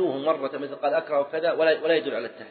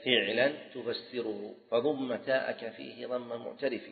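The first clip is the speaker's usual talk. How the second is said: slow, metrical recital, tailing off softer; slow teaching verse, quieter towards the end; verse recitation; 4 dB quieter than usual. Shown as a demonstration. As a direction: recite the rule as a measured couplet. Recites grammar verse again.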